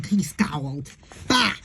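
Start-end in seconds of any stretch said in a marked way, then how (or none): 1.3-1.5 a short grumpy "bah" moan. A narrator's reading. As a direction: groan it out like a grouch. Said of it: "he moaned".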